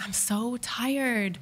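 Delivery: drawn-out, mock-weary complaint; weary inner voice. Wife torn about going to the game, slow weariness. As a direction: stretch it out slowly, worn out.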